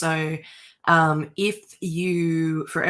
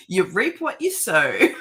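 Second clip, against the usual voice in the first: laughing; 3 semitones higher than usual. Real, not acted. Teasing partner through laughter.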